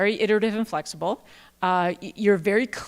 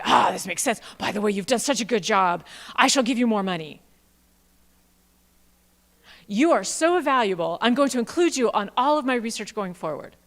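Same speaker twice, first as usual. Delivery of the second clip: louder, beaming praise from a grateful boss; gushing grateful P I; 4 dB louder than usual. Retold or imitated. Presenter voicing the P I praising her, gushing. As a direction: gush over the postdoc like a delighted boss. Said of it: "need to look at it and say".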